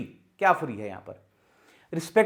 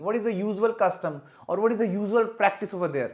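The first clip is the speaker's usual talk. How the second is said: slow, deliberate wrong sentence; wrong example, slow; 2 semitones higher, much slower than usual. Shown as a demonstration. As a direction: read the mistake slowly. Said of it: "ऐसे use नहीं करना".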